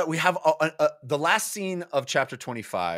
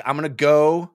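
lightly voiced solemn hero; grim resolve; 5 semitones lower than usual. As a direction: set your jaw and commit to the task. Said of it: "Lorik is like".

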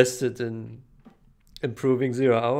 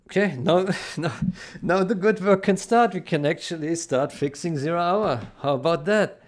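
much higher and louder, bursting with energy; eager excitement; 5 semitones higher, 4 dB louder than usual. Real, not acted. Developer tells viewers the real work can start, excited. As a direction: launch into it, thrilled.

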